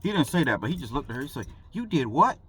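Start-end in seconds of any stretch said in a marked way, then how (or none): 1.7-2.4 loud, high mock disbelief; incredulous cop. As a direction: imitate an officer who can't believe it.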